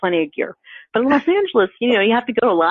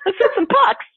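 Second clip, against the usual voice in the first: put-on much higher, bouncy keen kid; eager young daughter; 13 semitones higher than usual. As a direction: chirp it like an excited girl. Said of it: "one of those girls going like".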